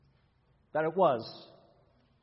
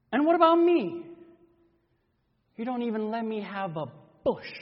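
aggrieved outburst. Acted.

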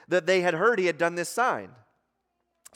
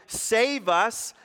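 mock yell; 5 semitones higher than usual. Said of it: "they're yelling".

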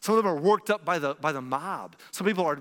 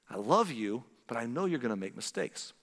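low, tender fatherly assurance; loving reassurance; 5 semitones lower, 4 dB quieter than usual. Acted. God as father to his children, lovingly reassuring. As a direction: drop low and soften towards the end.

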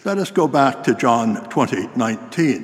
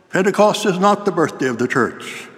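higher-pitched indignant objection; mock shouting; 5 semitones higher than usual. Principal contradicting the student preacher, mock shouting. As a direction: retell a shouted contradiction, stopping short of full volume. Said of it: "jumped to his feet and started shouting".

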